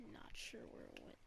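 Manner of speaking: unvoiced low whisper. Real, not acted. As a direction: keep it hushed. Hushed stalking.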